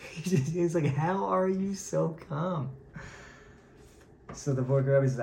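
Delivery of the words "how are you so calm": very slow, higher, drawn-out question; passionate disbelief. Retold or imitated. Fiery rebbe questions his very calm friend, passionate disbelief. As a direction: drag out the question in mock amazement. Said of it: "very, very passionate".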